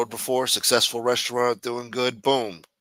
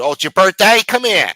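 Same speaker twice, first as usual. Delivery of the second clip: loud, high taunting birthday voice; high mock-cheery shout; mock friendly bully; 7 semitones higher, 11 dB louder than usual. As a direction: yell it like a grinning bully about to punch you. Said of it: "one of them motherfuckers that would do".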